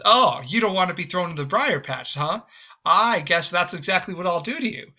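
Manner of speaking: sly gotcha, mocking the rabbit; gloating captor. Fox taunting the caught rabbit, smug and gloating.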